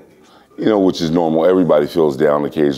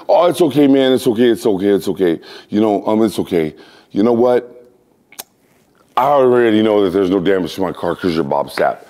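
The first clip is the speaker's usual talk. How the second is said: mild imitation of car owner; 3 semitones higher than usual. Car owner reassuring him.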